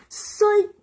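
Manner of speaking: playful psych. Acted. Jokey reveal to the teacher.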